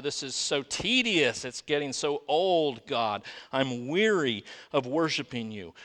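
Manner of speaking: whining. Acted. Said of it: "they're whining about it".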